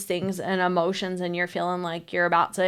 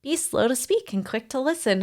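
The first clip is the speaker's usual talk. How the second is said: mildly patronizing quoted advice; lightly mock a preachy advisor; condescending; 3 semitones higher, 3 dB quieter than usual. Retelling unwanted advice to a wife, mildly condescending. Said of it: "condescending and patronizing to be like".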